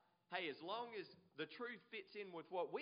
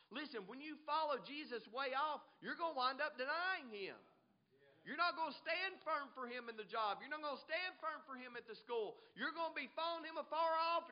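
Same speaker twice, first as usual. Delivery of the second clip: raised, higher-pitched preacher's delivery; forceful preaching; 6 semitones higher, 4 dB louder than usual. Real, not acted. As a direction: press the warning on the congregation.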